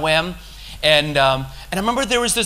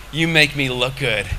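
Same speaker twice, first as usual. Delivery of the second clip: lower, grateful words to God; humble thanks to God; 4 semitones lower than usual. Retold or imitated. Speaker to God while walking through the park, humbly grateful. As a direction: offer it up in humble gratitude.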